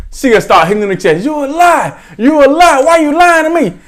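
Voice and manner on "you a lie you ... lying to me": high-pitched imitation of scolding; mock angry accusation. Grandmother confronting her lying granddaughter, mock outraged. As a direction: play an outraged grandmother calling out a liar.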